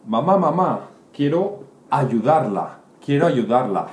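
put-on eager child. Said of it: "Y Carlitos dice".

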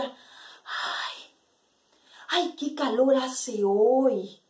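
sighed opening, then slow drawn-out complaint; weary from heat. Acted. Washerwoman to the other women, heat-weary sigh.

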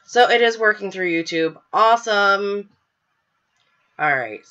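blocked nose from a cold; stuffy nose. Real, not acted. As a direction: speak with a stuffy head cold. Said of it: "if I sound, like, stuffy".

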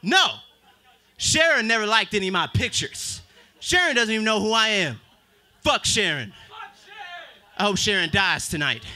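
rising to a shouted curse; angry refusal. Retold or imitated. Comedian answering Facebook, building to an angry shout. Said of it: "I'm like".

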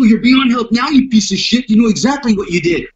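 a hint of a menacing bad guy; contemptuous threat. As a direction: spit the insult at him. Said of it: "The bad guy is gonna look at you and go".

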